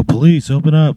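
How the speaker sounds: high, loud official call; police shout. Acted. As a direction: call out through a closed door as police. Acted police calling through door.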